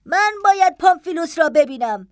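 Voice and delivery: high-pitched, urgent woman's demand; impatient insistence. Acted. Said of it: "با نوعی پافشاری بیتابانه".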